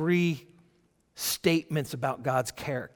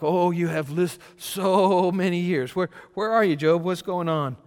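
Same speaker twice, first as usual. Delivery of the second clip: sarcastic God; 3 semitones higher, 6 dB louder than usual. Acted. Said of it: "And God's like".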